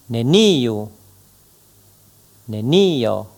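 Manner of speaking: iu, kiu, tiu, neniu with the stress pushed hard; exaggerated stress. Shown as a demonstration. Teacher drilling correlatives with stress exaggerated. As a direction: overdo the stress on each correlative. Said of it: "en exagérant encore l'accentuation".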